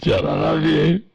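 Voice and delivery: hammed-up lovesick rise. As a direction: lift it up, pleading. Sports reporter declaring love.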